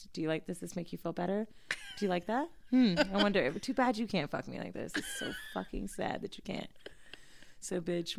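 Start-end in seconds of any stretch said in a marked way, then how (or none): 0.1-6.7 soft, teasing taunt; taunting into the phone. Retold or imitated. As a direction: purr the mockery at him. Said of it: "I'm talking into the snap like".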